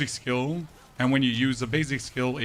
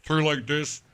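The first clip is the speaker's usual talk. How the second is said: halting attempt at a warble, slightly raised; warbled voice demo; 3 semitones higher than usual. Shown as a demonstration. Streamer showing chat a disguised TV informant's voice, warbled. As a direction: roughly mimic a distorted informant voice. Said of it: "the warbled kinda like".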